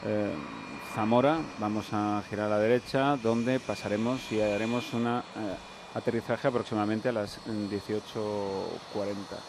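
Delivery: lightly voiced pilot over the intercom; a hint of a bored captain's cabin address; airline captain announcement. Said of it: "cuando el comandante da la información".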